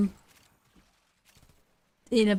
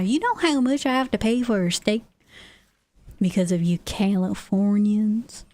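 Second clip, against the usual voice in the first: grumpy Texan local. Pretend.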